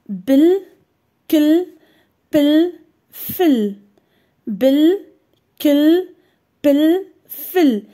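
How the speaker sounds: syllabes détachées et appuyées; syllables read out. Shown as a demonstration. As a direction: articule chaque syllabe nettement. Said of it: "Leçon". (syllabes articulées nettement)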